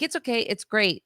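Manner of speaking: a small girl pretending she's fine; daughter's voice. Daughter's brave reply voiced by mom.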